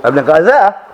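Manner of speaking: lightly imitated street vendor calling the paper, GAZETTE squashed to "guy-zair"; slurred seller's call of "Evening Gazette"; newspaper seller's cry. Blackpool newspaper seller advertising the paper, imitated street cry. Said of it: "they have these special cries".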